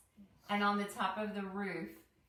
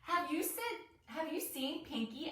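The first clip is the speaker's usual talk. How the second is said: high, anxious asking; urgent question; 8 semitones higher than usual. A narrator's reading. Penny asks classmates about the flamingo, high anxious question. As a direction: ask it high and worried.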